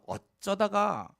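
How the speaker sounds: "어쩌다가" stretched very slowly, falling at the end; drawn-out emphasis. Real, not acted. Preacher marvels at being rescued from darkness, "어쩌다가" drawn out slowly. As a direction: linger on every part of "어쩌다가".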